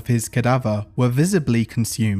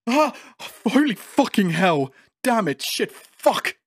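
high, frantic swearing; terrified outburst, pitch way up; panicked yelling; 8 semitones higher than usual. Acted. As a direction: yell curses in rising terror. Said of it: "begins crying and repeatedly yelling expletives".

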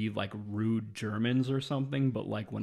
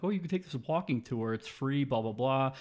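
chirpy; 4 semitones higher than usual. Retold or imitated. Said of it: "And they're like".

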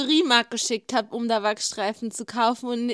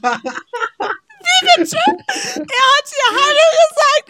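much higher and louder, half laughing, half crying; fangirl squeal; 9 dB louder, much slower than usual. Real, not acted. Hearing her idol greeted her friend, squealing in disbelief.

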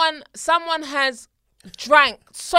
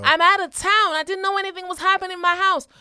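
lightly higher British-sounding woman; mock British accent; 6 semitones higher, 4 dB louder than usual. Host acts the wife on the phone, startled British accent. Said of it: "how did we get to a British accent".

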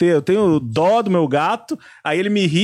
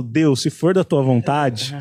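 mock prayer; 4 semitones lower, slower than usual. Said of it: "eu falo".

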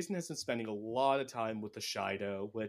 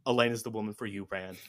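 mock Aviendha, pushier; 5 dB louder, faster than usual. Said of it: "see a female lizard and go".

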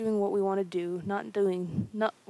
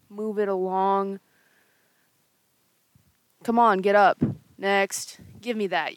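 loud barking guard calls; gruff guard; 6 dB louder than usual. Acted. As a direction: order creatures along. Guards collecting creatures.

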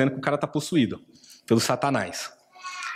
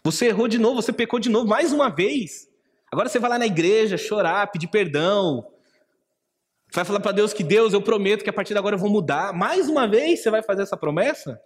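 a higher, jeering accuser mocking yet another promise; mocking enemy voice; 5 semitones higher than usual. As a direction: sneer at the sinner who keeps falling. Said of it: "eu ouvi essa voz no meu coração".

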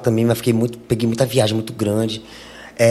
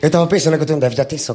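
all in one breath; 2 semitones higher, much faster than usual. Real, not acted. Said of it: "Deixa eu respirar um pouquinho".

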